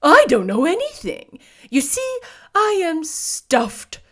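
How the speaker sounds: loud, slow straw-man lament; sad scarecrow. A narrator's reading. Scarecrow admitting he has no brains, sad. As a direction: confess it plaintively, drawn out. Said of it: "he answered sadly".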